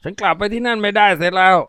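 a nervous addict begging; timid, high and pleading; meek junkie. Acted.

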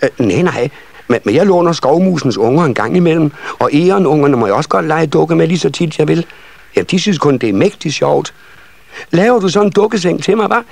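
high, eager little voice; chattering nisse child. A narrator's reading. Second child explaining her doll-bed wish, high chatter. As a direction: prattle on as a small child, pitched high.

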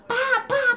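high, mock kicking noises; hammed-up high "pá" bangs; imitated door kicks. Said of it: "Aí ele chuta".

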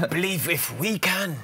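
slow, booming political slogan; rally the crowd like a prime minister; Boris Johnson. Retold or imitated. Asked for a Boris Johnson impression, a slow lightly voiced slogan. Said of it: "Boris Johnson".

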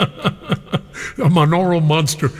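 laughing through the words, slowly. Real, not acted. Host relishes caller's old station nickname, laughing. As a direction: savor the phrase while chuckling.

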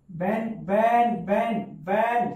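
"बेंड" stretched slowly, over and over; drawn-out syllable. Shown as a demonstration. Teacher isolating a syllable for students, saying "बेंड" drawn out. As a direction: repeat "बेंड" as one long, slow syllable. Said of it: "इसमें second syllable क्या है".

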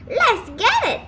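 high, eager call; crying out. A narrator's reading. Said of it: "the boy cried".

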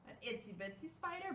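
light, small voice; small itsy bitsy. Shown as a demonstration. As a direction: make the spider sound little. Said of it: "I always like to do".

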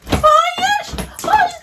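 Hayır squealed very high and loud. Real, not acted. Laughing it off to her listeners, squeaky high Hayır.

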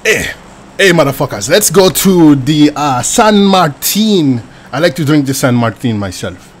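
hammed-up Spanish-accented place names; put-on accent. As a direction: savour each name in a Spanish-style accent. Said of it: "We should all talk in accents".

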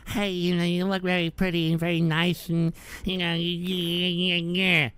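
a hint of a nervous guy hitting on a woman; mock timid flirting. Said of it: "going up to her and saying".

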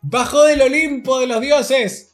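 loud, high laughing yell; mock outburst. Real, not acted. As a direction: crow it out gleefully. Loud mocking outburst at pull. (grito burlón, fuerte y agudo)

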